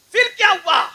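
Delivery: high, loud question to the crowd; rhetorical preaching question. Real, not acted. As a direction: ask it loudly to hook them. (بلند آواز میں سوال)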